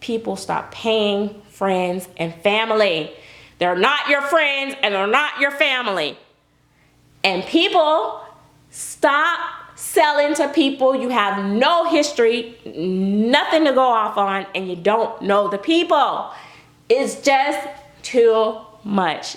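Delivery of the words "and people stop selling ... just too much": fed-up, emphatic, exasperated scolding rant. Speaker addresses viewers in a video, yelling. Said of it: "I'm sorry, I'm yelling".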